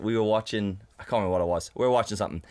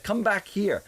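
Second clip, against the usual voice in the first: exasperated order; 10 semitones higher, slower than usual. Retold or imitated. Retells her calling him back.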